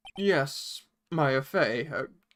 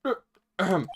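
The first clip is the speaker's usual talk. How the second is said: a hint of a booming old lawyer, louder; pompous old attorney greeting a visitor; Grossberg voice; 5 dB louder than usual. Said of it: "Grossberg's voice".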